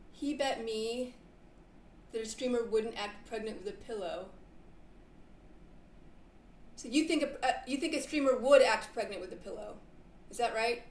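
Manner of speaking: drifting, stoned delivery. Real, not acted. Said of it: "I'm stoned".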